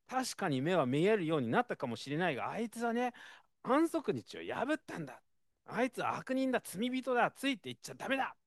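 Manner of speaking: high-pitched, hammed-up accusation; mock shouting. Pharisees warning the man off, high mock shouting. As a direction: rant that he broke the Sabbath. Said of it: "大声で叫んでるんですね".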